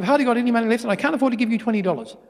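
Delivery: lightly acted harried dad; exasperated father. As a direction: protest quickly that you're broke. Father refusing his son money.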